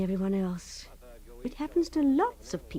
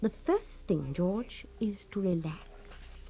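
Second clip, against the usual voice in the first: hushed, slow and soothing; calming whisper; 3 semitones lower, 8 dB quieter, slower than usual. Acted. Wife soothing panicked husband, whispered. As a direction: breathe the words to calm him.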